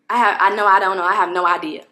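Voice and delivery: mock frustration and annoyance; frustrated, annoyed. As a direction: imitate an annoyed receptionist brushing someone off. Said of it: "the frustration and annoying, annoyance in her voice".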